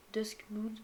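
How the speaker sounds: English words with a French accent. Real, not acted. Gamer repeating an unfamiliar game title, French-accented English. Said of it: "désolé pour mon accent anglais".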